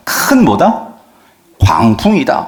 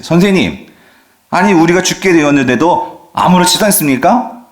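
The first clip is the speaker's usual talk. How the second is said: angry complaint; 5 semitones higher than usual. Retold or imitated. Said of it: "화가 난 거죠".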